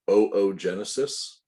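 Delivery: "oogenesis" opening with two long O sounds; oh-oh-genesis pronunciation. Shown as a demonstration. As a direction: say "oogenesis" as oh-oh-JEN-uh-sis. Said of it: "It is pronounced".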